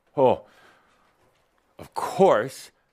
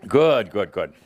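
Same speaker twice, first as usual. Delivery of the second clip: laughing; 5 dB louder than usual. Real, not acted. Laughing approval.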